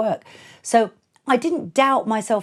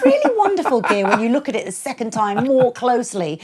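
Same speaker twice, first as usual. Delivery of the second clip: mock gushing praise; 6 semitones higher, 5 dB louder than usual. Sarcastic fake praise to promoter.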